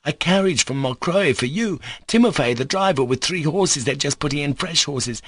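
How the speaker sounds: breathless joy. A narrator's reading. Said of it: "breathless and joyful".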